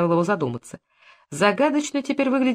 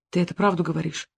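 pale with fear; 3 dB quieter than usual. A narrator's reading. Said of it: "снова спросил Усков бледнее".

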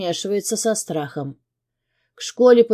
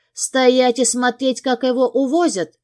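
furious; 6 semitones higher than usual. A narrator's reading. Mother shouting at husband in fury. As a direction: throw it back at him in rage. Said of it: "взрывается Ягодка".

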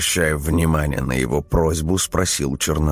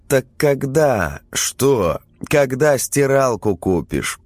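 insistent wife; 8 semitones higher than usual. A narrator's reading. Wife presses husband.

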